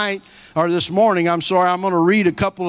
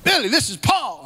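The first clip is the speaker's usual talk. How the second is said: lightly higher mimic of a caller; a touch of a friend's phone voice, pitched up; imitating Paul; 6 semitones higher than usual. Retelling the friend's call again, lightly higher mimic. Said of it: "that's how he talks".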